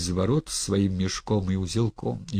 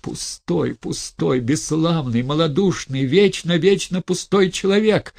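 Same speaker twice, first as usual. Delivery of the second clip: building to a high, loud furious outburst; furious hiss; 7 semitones higher, 4 dB louder than usual. Acted. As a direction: spit contempt at him, rising to a shout. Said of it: "шипела она своим яростным шёпотом".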